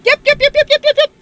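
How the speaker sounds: cold shock. Real, not acted. Stepping into cold bath.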